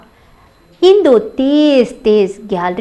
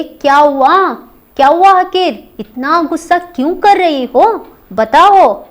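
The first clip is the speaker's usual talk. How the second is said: gentle coaxing; 3 semitones higher than usual. Acted. Teacher voicing elder daughter-in-law comforting angry Indu, coaxing. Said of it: "हाथ रखती हुई पूछ रही है".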